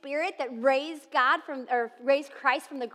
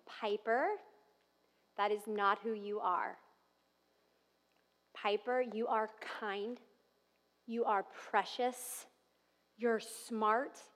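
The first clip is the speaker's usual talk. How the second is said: tender mother; 2 semitones lower than usual. Retold or imitated. Mother speaks to her daughter.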